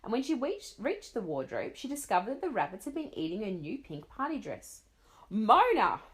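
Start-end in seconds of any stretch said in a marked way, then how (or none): 5.3-6.0 loud, furious yell of the name; mother at the end of her rope; very angry call. Acted. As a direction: shout it, fed up. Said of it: "her mother sounded very angry now".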